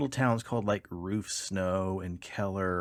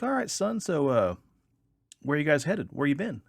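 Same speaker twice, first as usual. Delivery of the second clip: higher, louder drawling highway trooper; 7 semitones higher, 4 dB louder than usual. Retold or imitated. Trooper questions the young driver at roadside, higher and louder. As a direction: play the suspicious state trooper sizing him up.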